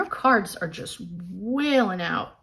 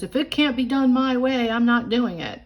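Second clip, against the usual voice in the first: a bossy, stubborn inner troll, slightly higher; control troll; 4 semitones higher, 3 dB louder than usual. Retold or imitated. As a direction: voice the controlling troll refusing to budge. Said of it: "control troll that says".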